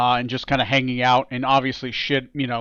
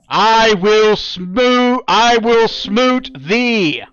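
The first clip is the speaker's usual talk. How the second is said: laughing villain line; 6 semitones higher, 5 dB louder, much slower than usual. Acted.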